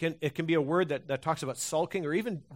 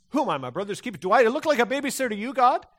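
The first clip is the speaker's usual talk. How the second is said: loud, higher, fast indignant snap; hostile retort; 7 semitones higher, 6 dB louder, faster than usual. Retold or imitated. Cain defying God about his brother, loud hostile snap. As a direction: fire it back defiantly. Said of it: "Abel's response".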